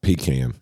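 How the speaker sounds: pecan said as PEE-can; pecan with "can" as in tin can; pee-can pronunciation. Shown as a demonstration. Joking answer to the question, pecan as PEE-can. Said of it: "Like pecan or pecan?".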